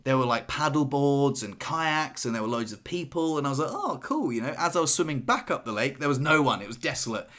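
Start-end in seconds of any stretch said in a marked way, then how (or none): 3.7-4.3 squeaky high carefree oh cool; light, airy and unbothered; mock breezy. Retold carefree thought.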